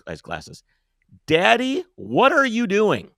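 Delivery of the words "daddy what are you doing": put-on high, loud child calling daddy; child's voice. Child calling to the road-raging father, high child voice. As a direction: squeal like a frightened kid. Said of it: "this is the voice I hear".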